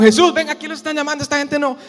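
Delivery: high, quick call; acted hurried summons, pitched high. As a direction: call someone over urgently. Voices bystanders calling Jesus over.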